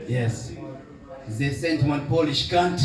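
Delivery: rough Mauritian accent, self-mocking imitation; old Mauritian uncle in a Mauritian accent. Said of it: "my atrocious Mauritius, Mauritian accent".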